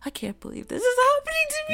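fast breathy laughing whisper. Retold or imitated. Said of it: "And I'm like".

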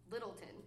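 Littleton, with the second half reduced to "tun"; locals' pronunciation. Shown as a demonstration. Showing how locals call their town, Littleton with a swallowed ending. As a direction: say Littleton run together, unstressed "tun" ending. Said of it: "That's what the locals call it".

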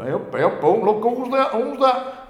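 high, loud mock excitement; excited passer-by. Passers-by spotting someone off the telly, mock excited.

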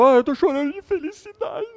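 high, teary mock sob of happiness; crying with joy. Someone overcome, mock crying from happiness. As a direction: squeak it out as if weeping for joy. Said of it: "Tá tão emocionado, tal, tal, que chora".

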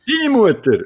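hohe, laute Rückfrage; ungläubig zurückfragen; empört überrascht. Real, not acted. (laut ungläubige Frage)

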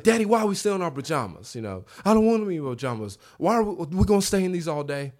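imitating a little boy's mild rant; ranting child. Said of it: "I let him rant for a little bit".

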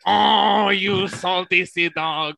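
mock Irish greeting to a fellow prisoner; Irish accent. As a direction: play the old Irish sea dog slowly. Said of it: "I have been working on my Irish accent".

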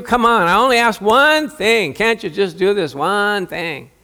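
guilt-trip him like a fussing mother; nagging mother. Acted. Mary nags Jesus to help, whiny motherly guilt-trip.

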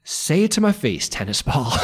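high-pitched challenge, dropping at the end; distinctive heckler voice. Retold or imitated. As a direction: imitate the guy picking a fight. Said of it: "I hear a distinctive voice".

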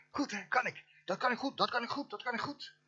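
high, smug self-praise; mock boasting. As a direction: brag about it, tongue in cheek. Mock bragging, repeated.

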